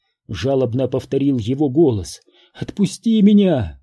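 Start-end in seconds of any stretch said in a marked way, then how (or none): 2.5-3.8 higher, louder desperate plea; begging. A narrator's reading. Florence begging the ghost, high desperate plea. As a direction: beg to be let go. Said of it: "взмолилась она".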